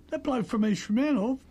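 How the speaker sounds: mock outrage at the rival's name; hammed-up shock at the rival; incredulous. Retold boss hearing rival's name.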